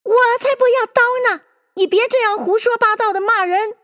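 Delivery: high, fast, indignant mouse; high-pitched offended outburst; angry retort. A narrator's reading. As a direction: refuse crossly in a high voice. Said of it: "怒道".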